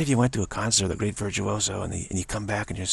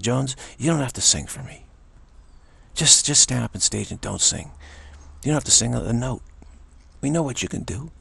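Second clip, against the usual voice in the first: earnest fan; 3 semitones higher than usual. Retold or imitated. Fan pleads with singer onstage.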